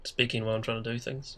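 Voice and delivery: stuffy nasal voice from a cold; talking through a blocked nose. Real, not acted. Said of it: "excuse the nasal voice a little bit".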